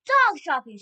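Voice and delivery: high, loud yelled alarm; witch's yell. A narrator's reading. Witch announcing what she smells, yelling. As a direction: yell it out to the whole room. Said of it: "she yelled".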